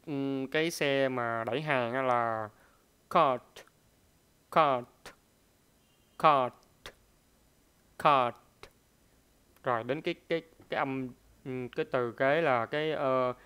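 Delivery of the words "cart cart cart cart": cart with an aspirated k and no final t; cart, spoken as a model word; clear pronunciation. Shown as a demonstration. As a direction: say cart clearly and loud, breath on the k. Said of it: "âm đầu tiên là cái xe".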